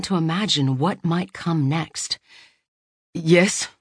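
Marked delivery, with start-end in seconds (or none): 3.1-3.7 uneasily. Acted. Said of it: "she said uneasily".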